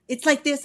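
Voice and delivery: retold patient correction leaning on "this"; "this" gently punched, as if demonstrating; stress on "this". Producer showing singer how to say the line, stress on "this".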